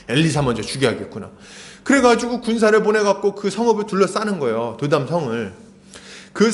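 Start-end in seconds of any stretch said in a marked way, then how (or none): none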